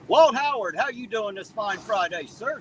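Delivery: high and loud name call; excited greeting. Real, not acted. Streamer hailing a viewer in chat, loud excited call. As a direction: shout the name like spotting a friend.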